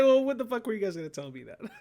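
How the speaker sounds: high, loud, fast laughing shout; laughing mock outrage. Telling friends they knew all along, laughing shout. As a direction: yell it in mock disbelief through laughter.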